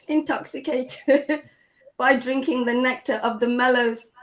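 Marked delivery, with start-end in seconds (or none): 0.1-3.1 reading through real giggles; can't keep a straight face reading; laughing. Real, not acted. Reader giggling through the verse to the class.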